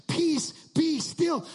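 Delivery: commanding Jesus. Retold or imitated. Jesus commanding the storm, loud and slow. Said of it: "calms the storm with three words".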